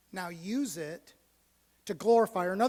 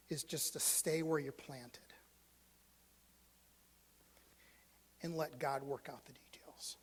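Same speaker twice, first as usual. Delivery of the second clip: hushed, intimate whisper; 5 semitones lower, 11 dB quieter than usual. Real, not acted. Pastor whispering a lesson on faithfulness to the congregation. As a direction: draw the room in close.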